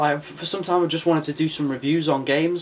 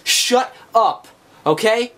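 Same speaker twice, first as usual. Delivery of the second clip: higher, louder mock telling-off; mock shout; 8 semitones higher, 5 dB louder, much slower than usual. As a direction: shout it down at the whiners, hammed-up. Retorts louder to imagined viewers.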